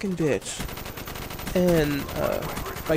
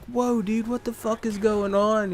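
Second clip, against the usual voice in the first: pitched up in mock shock, what the fuck is going on; higher, stunned disbelief; 5 semitones higher, slower than usual. Called into the office, worker asks what the fuck in high disbelief. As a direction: sound floored by the overreaction.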